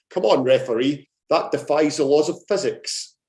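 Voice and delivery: posh dad calling to the referee. Retold or imitated. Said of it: "my dad's posh voice pipes up".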